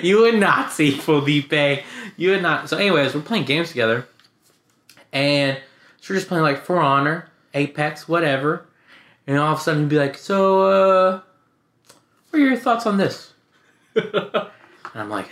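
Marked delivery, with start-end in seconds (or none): 0.1-2.7 mock accusation. Replays accusation with brother's name. 10.2-13.3 high, drawn-out leading question; imitated debate prodding. Imitates brother opening a debate.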